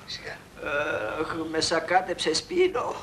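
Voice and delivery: slow, drawn-out aching moans; groaning in pain. Acted. Beaten man complains of the thrashing, groaning in pain. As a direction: groan each phrase as if battered. Moaning after being beaten up.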